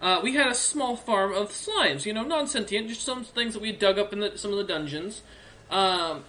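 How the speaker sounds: cheerful orc recalling home cooking, lightly played; lightly voiced orc librarian, fond memory.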